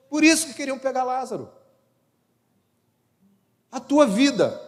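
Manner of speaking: high, loud fervent preaching; loud impassioned preacher; preaching at full force. Acted. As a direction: drive it home to the congregation.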